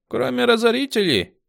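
put-on light little girl voice; small girl. A narrator's reading. Small girl confirming to commander, high voice. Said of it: "подтвердила мелкая".

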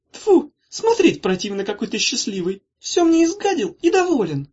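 high, loud mock disgust; shrill fake revulsion. A narrator's reading. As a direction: scold him half laughing. Sister scolding happy brother.

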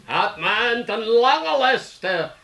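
slow, drawn-out theatrical recitation; declaimed verse rehearsal. Pretend. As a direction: intone each word grandly, stretching the vowels.

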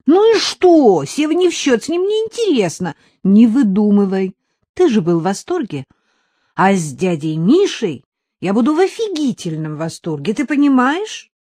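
put-on high, loud boyish protest; protesting young boy. Son argues with mother about the banana ride, high and loud. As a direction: argue back like a stubborn kid.

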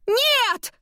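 very high horrified scream of no; horrified yell. A narrator's reading. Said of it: "ору я в ужасе".

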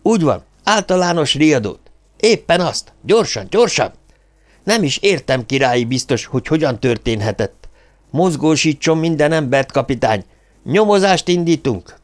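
high, flustered flood of orders; agitated, pitch jumping up; near-hysterical. A narrator's reading. Hírek ordering the captain to raise the alarm, near-hysterical. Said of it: "Már-már hisztérikusan ismételgette".

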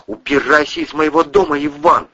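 cold, high order to leave; coldly. A narrator's reading. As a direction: throw him out with cold contempt. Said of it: "произнесла Кристина холодно".

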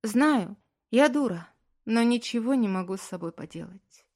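high, loud tearful confession; crying wife admits she cannot help it; tearful admission. A narrator's reading. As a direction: choke out her helplessness.

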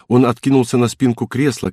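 ordinary delivery

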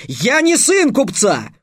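high, loud, indignant outburst; roared retort. A narrator's reading. Trix correcting the slave trader, roaring. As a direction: roar it out, drawing the words out. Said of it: "рявкнул Трикс".

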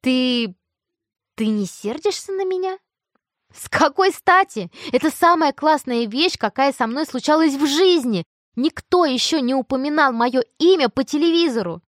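high, loud excited chatter; thrilled. Acted. Tina gushing to Mia about being on TV, high and excited. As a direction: gush with delight.

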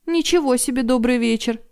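искренне возмущённо; sincere indignation. Acted. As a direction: scoff at the greeting. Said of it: "искренне возмутилась".

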